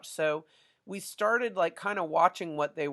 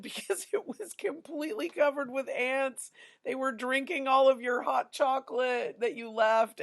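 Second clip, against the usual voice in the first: high-pitched, re-enacted alarm; retold urgent explanation; 8 semitones higher than usual. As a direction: explain the horror to a student, pitched up. Acts out urgent explanation to student.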